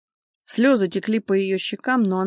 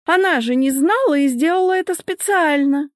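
high, loud angry woman; indignant accusation; 8 semitones higher, 6 dB louder than usual. A narrator's reading. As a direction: accuse her at raised pitch and volume. Acted accusation in a quarrel. (громкое возмущённое обвинение)

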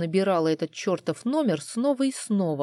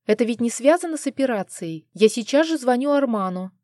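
anxious, rising lament, a bit higher; 6 semitones higher, 4 dB louder than usual. Acted. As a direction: wail out your worry. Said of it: "начала причитать она". (тревожное причитание, чуть выше)

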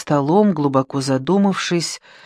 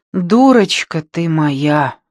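fond sigh; 4 dB louder, slower than usual. Acted. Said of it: "вздохнул он".

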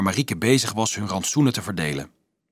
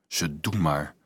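low, soft and weary, barely said; tired thought; 6 semitones lower, 6 dB quieter, slower than usual. A narrator's reading. Dolf thinks to himself after the others mock him, tired and resigned. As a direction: give up on it, worn out. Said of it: "dacht hij moe".

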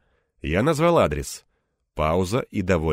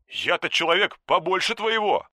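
offended; 11 semitones higher than usual. A narrator's reading. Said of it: "обиженно проговорил Бурцев".

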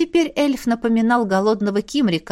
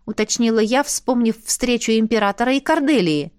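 usual speaking voice

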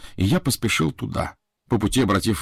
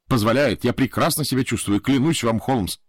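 flustered; 4 semitones higher than usual. Acted. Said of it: "сбивчиво говорил я".

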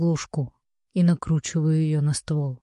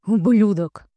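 loud growled insult; growling; 5 semitones higher, 5 dB louder, slower than usual. Acted. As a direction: snarl it at him. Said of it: "рычит мужчина".

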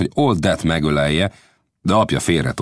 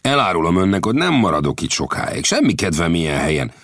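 Lang's voice. Acted. Lang continues.

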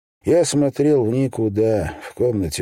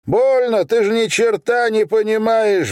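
roaring in fury; 14 semitones higher than usual. Acted. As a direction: scream it back at the father, outraged. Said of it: "Взревел я".

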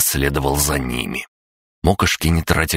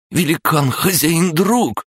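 snappy clicking crab; 14 semitones higher, slower than usual. Acted. Crab gnome greets hero.

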